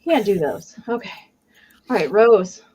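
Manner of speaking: slightly winded after a nervous moment; out of breath. Real, not acted. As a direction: speak while catching your breath. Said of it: "I'm out of breath".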